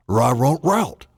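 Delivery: playful dog noises; dog language. Pretend. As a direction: talk like a dog. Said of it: "It says dog language".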